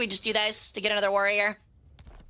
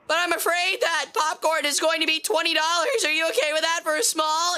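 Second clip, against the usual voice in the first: mock polite cashier; 5 semitones higher than usual. Acts polite teen cashier.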